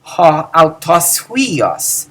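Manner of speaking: Ha autos huios very slow, falling; slow teacher's Ha autos huios; slow model phrase. Shown as a demonstration. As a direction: read Ha autos huios slowly. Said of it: "the intensifier autos".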